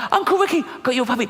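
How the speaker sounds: put-on high squeaky child calling out with giggles; little girl shrieking the news to her uncle; excited little niece. Niece shouting to Uncle Ricky, high and giggly.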